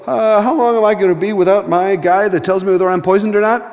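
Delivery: lightly voiced king, fretting over his servant; a touch of a worried king asking; king's voice. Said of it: "natural thing for the king to go".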